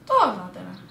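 loud urgent calling out; shouting. Real, not acted. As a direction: yell him back to base. Yelling at teammate to return.

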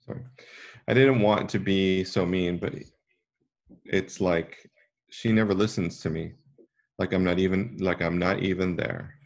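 put-on a hurt girl pouring out her grievance; upset forest girl.

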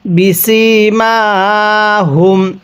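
বিসিমাহুম with the final ম hummed long through the nose; গুন্নাহ করে; nasal ghunnah. Shown as a demonstration. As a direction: hold a nasal hum on the ম of বিসিমাহুম. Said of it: "কিভাবে শিখব".

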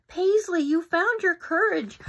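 high, loud proud cheer. Acted. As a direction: cheer her on. Friends cheer Paisley.

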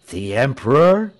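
"The Emperor" loud, left hanging on a rise; suspenseful announcement. A narrator's reading. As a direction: break off after "The Emperor" for suspense. Pastor holds back the news.

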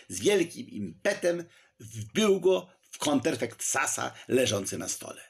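ordinary delivery

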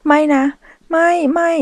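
high, loud frightened cries; panicked no. Acted. Michelle being seized by henchmen, panicking. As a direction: struggle and scream no in fear. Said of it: "มิเชลดิ้นพล่านด้วยความกลัว".

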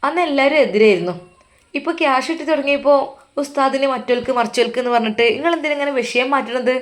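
a daughter-in-law berating the mother over the fees; heated rant. Acted. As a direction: fire it back at her quickly, building.

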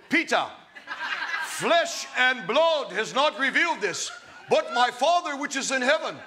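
lightly hammed solemn film Jesus, stifling a laugh; movie Jesus voice. Preacher imitates movie Jesus to Peter, mock solemn. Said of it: "know how he talks".

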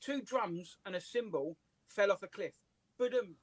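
slow, deliberate joke read with a rimshot; measured setup, neat ba-dum; kid's careful joke. Retold or imitated. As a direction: tell it slowly like a proud kid. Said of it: "he says".

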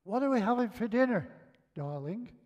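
sing-out question to someone out of sight; shouted from another room. Retold or imitated. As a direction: call it out, softening on the last word. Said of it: "I shouted to her from the lounge".

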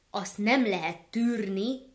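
slow, loud angry gander; angry hiss. Acted. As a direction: seethe the words out.

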